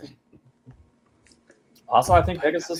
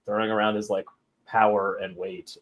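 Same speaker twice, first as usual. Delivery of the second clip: retold calm; 4 semitones lower, 3 dB quieter than usual. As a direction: calmly size up a blusterer, taking your time. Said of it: "very calmly goes".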